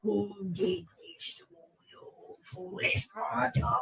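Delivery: slow, soft attempt at a menacing voice; a hushed try at sounding scary. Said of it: "I was trying to sound scary".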